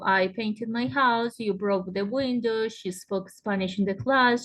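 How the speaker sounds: slow, careful example sentences, word by word; slow teacher's model sentences. Shown as a demonstration. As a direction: read each example out slowly so students can follow. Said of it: "El verbo está en pasado".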